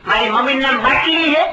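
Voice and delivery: put-on child voice. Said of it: "એક છોકરાએ કીધું".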